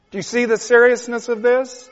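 high, loud, crying plea to God; weeping prayer, slowing on the plea; tearful preaching. Real, not acted. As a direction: pray through tears, begging.

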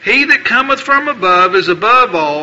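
formal, declaiming Bible reading; King James passage read from the pulpit; scripture reading. Acted. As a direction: proclaim the verses to the congregation. Reads scripture aloud.

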